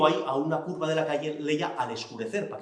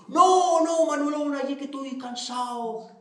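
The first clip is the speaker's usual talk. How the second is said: Xico alicaído; 9 semitones higher than usual. Acted. Xico abatido responde.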